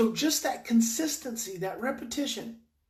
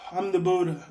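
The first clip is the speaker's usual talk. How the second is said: long airy sigh, then lower voice; mock serene Buddha; 4 semitones lower than usual. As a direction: play at being totally at peace. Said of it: "completely calm and at peace".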